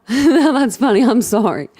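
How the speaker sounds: laughing hard at the joke; fighting back laughter; laughing till eyes water. Real, not acted. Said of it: "I'm over here crying".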